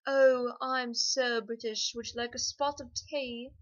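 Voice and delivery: exaggerated stereotype of a British accent; mock British accent. Shown as a demonstration. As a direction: play up a very British tea-drinker accent. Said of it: "two kinds of British accent".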